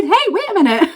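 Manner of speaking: high and loud, bursting with it; excited realization. Retold or imitated. Telling Billy at the stair top, excited. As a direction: catch yourself in giddy surprise.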